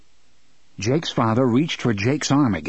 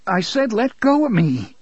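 yank free and yell it; angry shout; 10 semitones higher than usual. Acted. Jake yelling at his gripping father, angry. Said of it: "he repeated".

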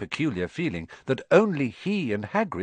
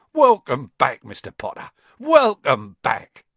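tearful welcome; 7 dB louder than usual. Acted. Barman seizes Harry's hand, loud tearful welcome. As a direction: call it out, moved.

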